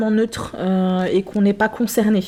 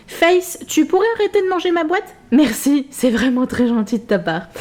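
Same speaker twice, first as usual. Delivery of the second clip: higher-pitched, sweetly chiding aside; mock-polite scolding; 5 semitones higher than usual. Real, not acted. Asking Face to stop eating the box, mock-polite scolding. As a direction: politely tell off a box-chewer.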